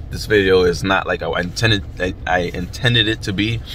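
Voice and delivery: lips numb from the cold; frozen mouth. Real, not acted. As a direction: stumble through stiff frozen lips. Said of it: "my mouth is so frozen where I can't even get my words out".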